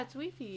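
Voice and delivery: "Wi-Fi" said as wee-fee; matter-of-fact "Wi-Fi", pronounced wee-fee; French-style pronunciation. Retold or imitated. French friend correcting her, "Wi-Fi" as wee-fee. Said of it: "but she was like".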